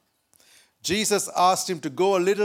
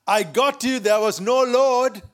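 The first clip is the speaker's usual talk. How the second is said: lightly acted gotcha, higher-pitched; spring out with a triumphant aha; gloating neighbour; 4 semitones higher, 4 dB louder than usual. Neighbour jumping out of the bush, mildly gloating. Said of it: "the neighbor jumped out of the bush and said".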